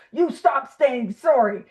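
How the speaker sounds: firm, drawn-out mock scolding; assertive friend. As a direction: lay down the law like a friend. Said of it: "an assertive friend that's like".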